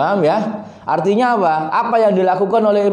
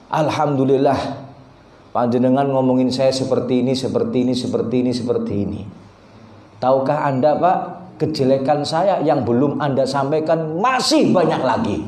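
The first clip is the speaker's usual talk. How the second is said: calm acted reply; 5 semitones lower than usual. Acts the Imam's unruffled answer.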